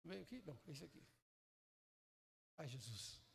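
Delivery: a sighing aside under the breath; muttered aside. Real, not acted. Mutters off-mic sigh. (resmungo baixinho de lado)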